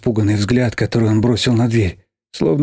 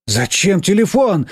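mild yell; 7 semitones higher, slower than usual. Acted. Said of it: "заорала я".

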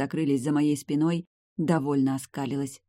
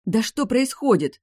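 loud, high exasperated question; 8 semitones higher, 6 dB louder than usual. Acted. Heroine loses patience with her smiling family, exasperated and loud. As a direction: demand an answer loudly.

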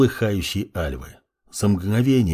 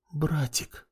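much softer faint breath of a word; weak whisper; 4 semitones higher, 10 dB quieter than usual. A narrator's reading. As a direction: barely whisper it, exhausted. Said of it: "прошептала она". (слабый шёпот)

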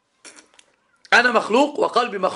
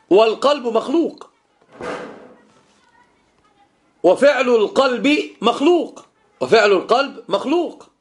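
emphatic preaching; 2 semitones higher, 5 dB louder than usual. Real, not acted. Teacher driving the point home to his students, loud and insistent.

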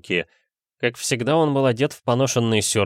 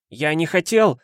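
mild cry; 7 semitones higher, 3 dB louder than usual. A narrator's reading. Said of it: "кричал Протасенко".

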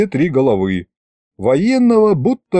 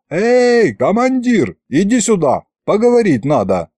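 high-pitched mild yell; calling out; 8 semitones higher than usual. A narrator's reading. Fedya waves down the officer to talk, calling out. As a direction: hail him from afar, not at full volume. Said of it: "замахал руками и заорал".

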